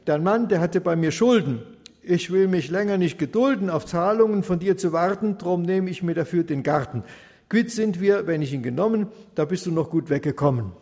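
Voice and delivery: loud, domineering neighbour laying claim; a bully demanding the garden, loud; loud smug neighbour; greedy neighbour. Acted.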